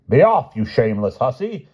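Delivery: high, loud scolding outburst; indignant cry. A narrator's reading. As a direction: cry it out like a lady fiercely driving off an intruder. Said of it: "she cried".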